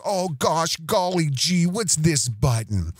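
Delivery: gee-whiz fake innocence; mock naive wonder. Mocking Owen as a wide-eyed beginner, playing dumb. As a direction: play dumb over the button. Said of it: "Mister So Brand New".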